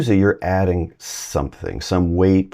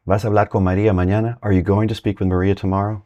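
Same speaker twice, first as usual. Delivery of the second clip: quick, nagging question; fast nagging voice of someone who keeps bugging you; pestering asker; 3 semitones higher, faster than usual. Retold or imitated. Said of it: "Somebody just keeps bugging you".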